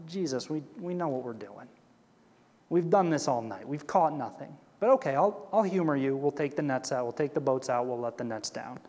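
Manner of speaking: reluctant. Retold or imitated. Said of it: "This is how Simon replies".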